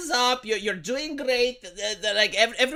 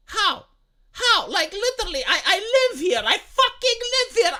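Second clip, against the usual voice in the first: heated rant; 9 semitones higher than usual. Real, not acted. Ranting at economy claims.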